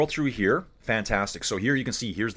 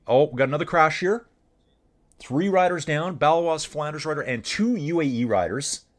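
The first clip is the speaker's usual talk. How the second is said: excited crash call; 5 semitones higher than usual. Real, not acted. Live crash on race feed.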